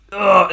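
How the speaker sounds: mock groan of pent-up frustration; frustrated groan. Retelling the wrestler unable to figure it out, frustrated groan. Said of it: "it just pens up frustration".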